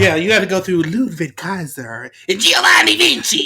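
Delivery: lightly hyped entrance build-up; teasing friend with ring announcer hype; a hint of ring announcer. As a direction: announce it like an arena intro. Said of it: "hear the whole Samantha Irvin intro in your head".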